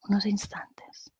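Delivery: calm guided-meditation voice with long pauses; unhurried meditation leader, phrase by phrase. Acted. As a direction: guide them gently through breathing, pausing between phrases.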